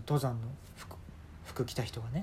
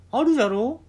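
put-on old man; 6 semitones higher, 8 dB louder than usual. Old man boasts about clothes.

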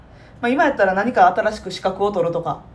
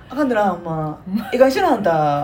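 loud nosy osaka auntie. Retold or imitated. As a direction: tease gently like a chatty auntie. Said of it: "ちょっと柔らかい感じで".

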